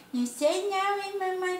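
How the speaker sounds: grandma voicing Tiliquinho to her viewers, high and playful. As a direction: play the little cheeky creature filming mom. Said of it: "Tiliquinho tá ali gravando tudo".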